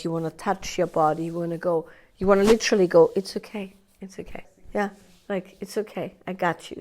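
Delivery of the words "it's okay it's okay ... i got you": soft, gentle hush; calm a little child softly; soothing a small child. Retold or imitated. Talking to the inner part as to a small child, softly. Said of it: "as if it's a small child".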